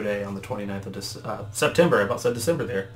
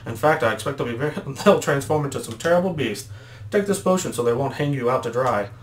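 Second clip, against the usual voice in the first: lightly voiced elder, slipping in and out; a hint of an old adviser; Elder Kettle; 3 semitones higher than usual. Elder hands over a potion, lightly put-on voice. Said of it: "when I do Elder Kettle's voice".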